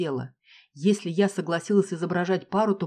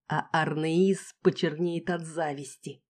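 vindictive relish; slower than usual. Acted. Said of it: "мстительно добавила Касси".

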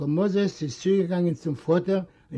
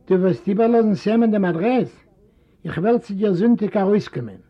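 lightly voiced uncle; uncle's request; 3 semitones higher, 4 dB louder than usual. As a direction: casually ask for the address. Uncle asks Sam for address.

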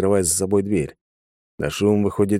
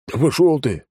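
higher, louder retort; snapping back; 7 semitones higher, 3 dB louder than usual. A narrator's reading. Captured thug snapping at the hero, louder retort. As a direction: spit it back at him. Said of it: "огрызнулся первый".

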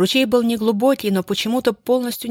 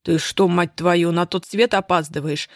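mild mock yell. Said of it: "заорал он".

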